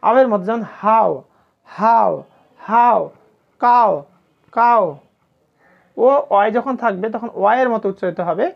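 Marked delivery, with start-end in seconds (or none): 0.8-4.8 হাও, কাও punched out with a full ao; ao diphthong. Shown as a demonstration. Teacher drilling the ow spelling, emphatic ao in হাও and কাও. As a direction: say each word apart, হাও, কাও, strong gliding ao. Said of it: "তখন উচ্চারণটা হবে কি? আও".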